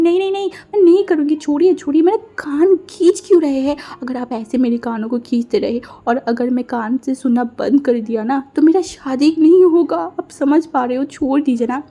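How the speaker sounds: high, fast, begging to be let go; frantic pleading. Acted. Wing begging, ear pulled. (घबराकर ऊँची आवाज़ में गिड़गिड़ाना)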